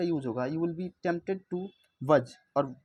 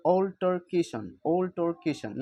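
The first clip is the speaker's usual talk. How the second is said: अल्टरकेशन with the KAY syllable stressed, louder; stress shown; 3 semitones higher, 4 dB louder, slower than usual. Shown as a demonstration. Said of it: "यहाँ पर के ए वाई, इस पर stress".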